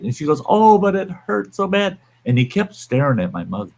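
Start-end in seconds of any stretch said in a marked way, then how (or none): 0.4-2.0 high, pleading mock whine; biker's wife whining to him, imitated high; whiny wife. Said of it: "she's whining and bitching".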